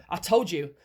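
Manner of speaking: usual speaking voice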